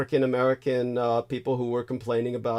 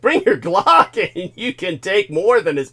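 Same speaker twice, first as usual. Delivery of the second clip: high, loud gleeful urging; hyped egging on; 9 semitones higher, 9 dB louder than usual. Real, not acted. Host cheering on the co-host's threat, loud and high. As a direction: egg her on, loud and gleeful.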